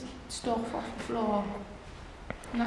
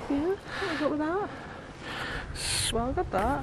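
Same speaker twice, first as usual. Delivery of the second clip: ghost impression; 6 semitones higher, 4 dB quieter, much slower than usual. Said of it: "Is that your ghost impression?".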